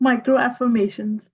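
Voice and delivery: fuller voice after a little laugh; opened up. Real, not acted. Student teased by teacher for shyness, now speaking up openly. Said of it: "तो खुल के बोले ना".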